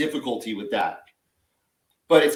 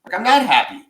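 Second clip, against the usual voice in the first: imitating daughter; 3 semitones higher than usual. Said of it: "She's like".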